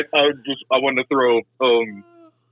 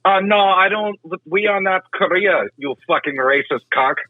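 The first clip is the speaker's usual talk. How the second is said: raised pitch, put-on Asian accent; 5 semitones higher than usual. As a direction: fake Asian accent, indignant. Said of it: "doing a fucking Asian accent".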